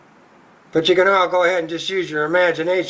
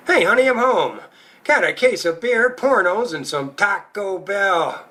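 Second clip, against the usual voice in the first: proud husband; 2 semitones higher than usual. Acted. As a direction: announce the haul like a proud hubby, slowing on the last item. Husband comes home with beer.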